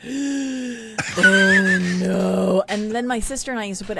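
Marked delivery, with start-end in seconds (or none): 0.0-2.6 loud, drawn-out cringing groan; cringing dread. Retold or imitated. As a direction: groan it out in horrified embarrassment. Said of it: "my experience watching this as a little girl was like".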